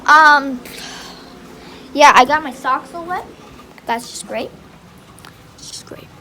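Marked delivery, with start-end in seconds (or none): 3.9-4.5 softer, low sarcastic remark; resigned grumble. Real, not acted. Locked out with wet socks, resigned grumble. Same words voiced, then whispered. 5.6-6.1 barely audible sarcastic mutter; resigned whisper. Real, not acted. Locked out with wet socks, resigned whisper. Same words voiced, then whispered.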